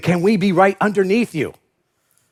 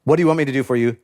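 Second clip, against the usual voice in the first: quiet, weighty question; 6 semitones lower, much faster than usual. Shown as a demonstration. Preacher repeating Jesus's key question, hushed and earnest. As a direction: lower and softer, letting "What do you want me to do for you?" land. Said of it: "this is a really important statement".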